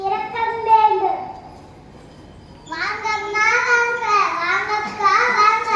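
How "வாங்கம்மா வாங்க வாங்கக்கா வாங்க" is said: singsong street hawker. Acted. Shopkeeper calling customers.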